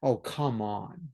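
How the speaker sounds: a lightly voiced scoffing husband, slow start; mock disbelief, half-hearted scoff; sceptical husband. Husband brushing off his wife's news, light mock scoff. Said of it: "he's gonna do this".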